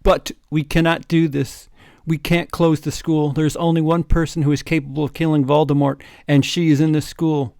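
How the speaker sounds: dramatic announcement. Acted. Dramatic voiced Dumbledore speech.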